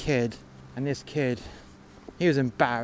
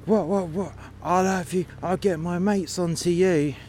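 higher-pitched, hammed-up indignant threats; mock shouting kid; 5 semitones higher than usual. Shoved kid threatening the Russian, mock indignant shouting. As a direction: imitate a chavvy kid mouthing off. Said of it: "was shouting".

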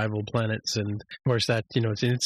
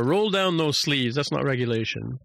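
stern order; 4 semitones higher than usual. Retold or imitated.

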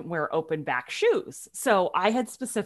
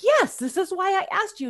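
exasperated yes; 10 semitones higher, 4 dB louder than usual. Retold or imitated. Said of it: "And I was like".

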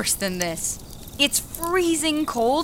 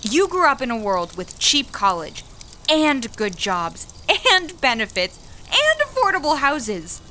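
rising bitter rant, getting higher and angrier; angry outburst; 3 semitones higher, 4 dB louder than usual. Acted. Young worker blaming the older woman, angry building rant. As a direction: throw the blame at her, building anger.

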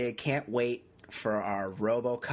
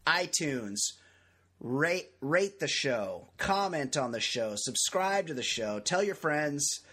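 upbeat announcer read; radio host; 3 semitones higher than usual. Acted. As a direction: sell the show like radio. Radio-style show intro.

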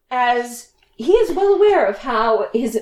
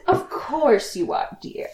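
condescending; 5 dB quieter than usual. Acted. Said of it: "almost like you would a child".

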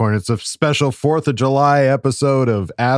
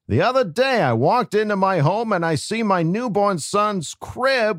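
Peter Griffin voice. Acted. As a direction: read the letter as a goofy cartoon dad. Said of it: "J Rob asked for me to do a Peter Griffin voice".

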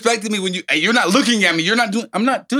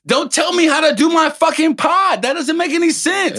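angry; 7 semitones higher than usual. Real, not acted. Heated argument with co-host.

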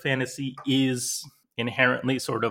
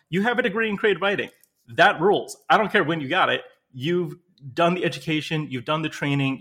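higher, louder and fast, all fired up; enthusiastic praise; 4 semitones higher, 4 dB louder than usual. Real, not acted. Agent cheering the writer's degree, excited. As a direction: hype them up like a fan.

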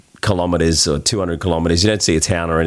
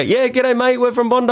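exaggerated Australian accent, pitched much higher; hammed-up high ocker Australian accent; broad Aussie accent. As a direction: ham up the Aussie g'day. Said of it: "And I go".

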